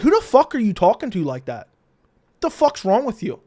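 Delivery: retold indignant challenge, pitch climbing; infuriated. Storyteller confronts the man behind him, infuriated. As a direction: act out firing back at a rude stranger. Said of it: "I got immediately infuriated".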